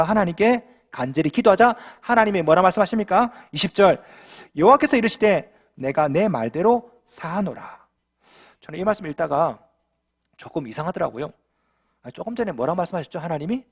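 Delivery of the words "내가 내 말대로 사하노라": slow, solemn voice of God; God speaking. Acted. Pastor reading God's verdict to the congregation, slow and solemn. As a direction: let God pronounce it slowly. Preacher voicing God's words.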